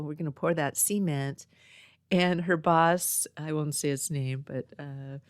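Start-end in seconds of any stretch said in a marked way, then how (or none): 0.0-1.5 "cement" with a long ee and stress up front, SEE-ment; country twang cement. Retold or imitated. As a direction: lightly imitate sister saying "cement" as SEE-ment. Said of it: "she said it".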